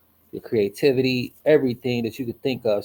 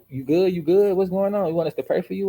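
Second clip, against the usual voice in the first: worried parents; 7 semitones higher than usual. Retold or imitated. Voices worried parents waking up.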